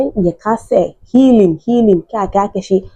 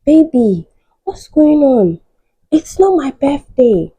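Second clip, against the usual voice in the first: surprised wife; 8 semitones higher than usual. Retold or imitated. Wife's surprised voice in story.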